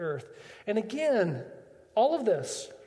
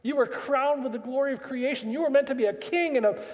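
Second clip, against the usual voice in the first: a father lifting his son out of the pig slop; rising fatherly affirmation; 5 semitones higher than usual. Acted. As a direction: lift him up, more eager with every line.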